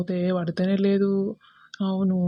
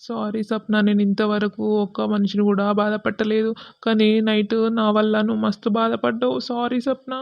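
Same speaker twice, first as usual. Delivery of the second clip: acted crying, mildly raised voice; tearful apology. Seenu apologizes to Sapna for hurting her, tearfully. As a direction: apologize through mild mock tears. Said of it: "ఏడవకు సీను".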